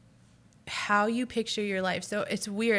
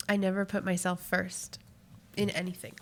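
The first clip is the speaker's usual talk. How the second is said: snotty crying. Real, not acted. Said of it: "I instantly got emotional".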